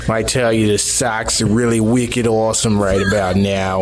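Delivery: put-on thick Boston accent, wicked and all. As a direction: play up a Boston sports fan. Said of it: "your Boston accent".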